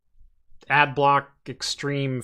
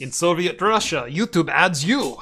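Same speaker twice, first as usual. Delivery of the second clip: put-on stereotypical Russian accent. Joking with his co-host in a mock Russian accent. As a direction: play the Soviet Russia joke in a Russian accent. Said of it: "the stereotypical Russian".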